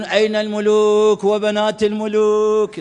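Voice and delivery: drawn-out, slow mock call; imitating a shout. Students on the roof calling out, drawn-out mock shout. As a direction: call it out slowly like students on a rooftop. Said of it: "يصيحون".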